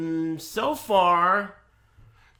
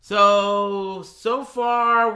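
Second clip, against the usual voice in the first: drawn-out segue; 5 semitones higher, 9 dB louder, much slower than usual. Real, not acted. Drawn-out return to addressing viewers.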